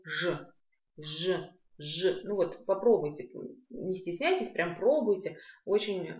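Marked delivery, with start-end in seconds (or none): 0.0-2.2 «ж» repeated with rounded lips. Shown as a demonstration. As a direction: round the lips on each separate «ж». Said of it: "Попробуйте округлить губы".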